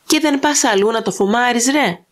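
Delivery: surly farmer mocking the stranger; lightly voiced insolence; insolent. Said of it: "απήντησε ναυθαδός".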